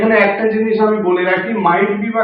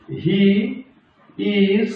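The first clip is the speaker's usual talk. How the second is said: very slow, word by word; slow dictation; much slower than usual. Shown as a demonstration. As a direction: dictate slowly for students to write. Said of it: "আমি ভেঙে ভেঙে বলছি প্রত্যেকটাকে". (ধীরে ধীরে বলা)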